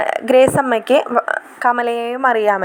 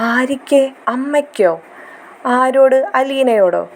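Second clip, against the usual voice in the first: higher, teasing mock disbelief; mocking questions; 4 semitones higher than usual. Son mocking his mother's sudden concern, teasing and higher. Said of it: "Manu കളിയാക്കുകയാണ്".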